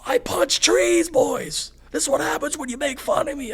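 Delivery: high, cracking mock scream; strained squeaky rant, coming undone; half-squeaky screaming. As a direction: imitate a squeaky, messed-up voice yelling at everybody. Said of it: "half squeaky voice fucking screaming at everybody".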